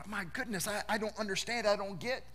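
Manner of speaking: soft, confused murmur to himself; a man lost for answers, half under his breath; quiet stunned bewilderment; bewildered inner thought. Retold or imitated. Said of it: "Job's sitting there thinking".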